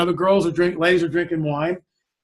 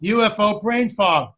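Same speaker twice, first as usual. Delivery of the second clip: retold outburst of realization, much higher then easing down; sudden realization; 4 semitones higher than usual. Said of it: "all of a sudden light bulb goes off".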